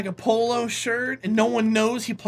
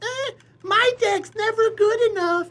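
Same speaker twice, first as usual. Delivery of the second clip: high, whiny fake modesty; whiny top player; 11 semitones higher than usual. Best player whining about his deck, high and whiny. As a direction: complain with false modesty. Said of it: "the one kid who's like".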